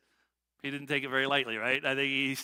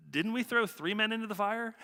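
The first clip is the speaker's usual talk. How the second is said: shocked shout; 5 semitones higher than usual. Retold or imitated. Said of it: "he shouted".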